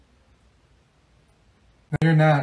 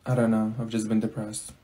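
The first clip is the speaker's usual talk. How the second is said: glum confession; 6 semitones lower, 4 dB quieter than usual. Acted. Confessing low mood.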